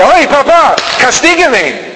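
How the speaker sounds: put-on high, pleading child begging papa; high mock child plea; whiny child voice. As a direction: play the naughty kid asking for punishment. Child asking father to punish.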